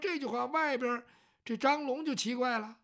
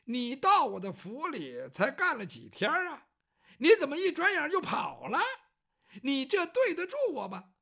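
higher, louder mock grievance; villain's false accusation; 4 semitones higher, 4 dB louder than usual. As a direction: accuse her with feigned outrage. 孙家恶人先告状. (孙家假装委屈地高声质问)

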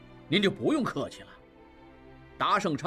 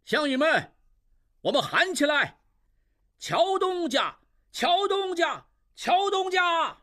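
shouting to crowd; 11 semitones higher than usual. Acted. Qiu Tong rallies the crowd to call for Qiao: high rallying shout. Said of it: "正对众人喊".

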